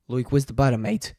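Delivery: loud mock-impatient Aussie complaint; Australian accent. Shown as a demonstration. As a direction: call it out in broad Australian. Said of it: "let's try Australian".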